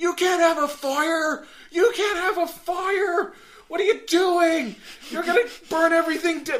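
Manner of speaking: very high, shrill screaming. Retelling how a park ranger screamed at the kids, imitating his screaming. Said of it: "he's screaming at us".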